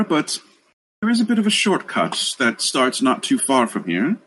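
a kindly deity thanking the heroes; warm serene goddess voice. Acted. GM plays NPC for many lines.

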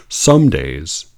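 sneering reread with a laugh; mocking reread. Shown as a demonstration. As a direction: read it back to ridicule it. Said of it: "Let's just read that again".

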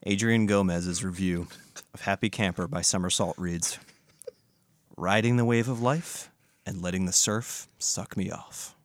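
steady deadpan reading; clean read. Shown as a demonstration. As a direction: read it straight, clean take. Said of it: "a nice, good, clean one".

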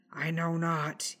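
slow, weak gasping words; a hint of a gasp, slowed and strained. A narrator's reading. Injured rider answering Anna under threat, faintly gasping. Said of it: "he gasped".

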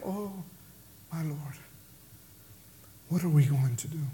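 a hushed, low, stunned plea; overwhelmed. Acted. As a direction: ask it as if the fight has gone out of you. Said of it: "we have that moment like".

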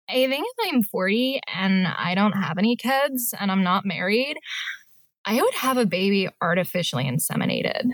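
a hint of Kourtney Kardashian. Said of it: "I'm gonna shoot for Kourtney".

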